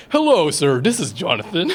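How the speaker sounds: a touch of the formal phone greeting; business voice. Retold or imitated. Son mimicking dad answering the phone, mild business voice. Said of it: "he has this business voice".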